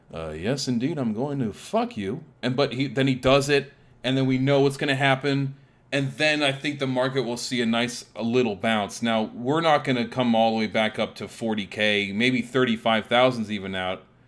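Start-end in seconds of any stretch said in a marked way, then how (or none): 0.1-2.2 smooth, silky, polished delivery. Imagining Jerome Powell coming out to speak: smooth Jerome Powell voice. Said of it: "Jerome Powell comes out with his smooth voice and says".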